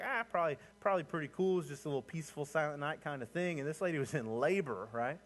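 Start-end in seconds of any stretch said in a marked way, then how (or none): 0.0-3.6 high, airy and dismissive; breezy mock shrug. Congregation imagining the birth, airy and dismissive. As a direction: wave it off like it was nothing. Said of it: "and we're like".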